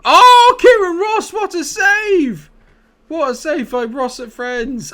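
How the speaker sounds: very high, loud, slow shriek of joy; ecstatic scream. Real, not acted. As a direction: scream the save out in disbelief. Amazing save, screaming.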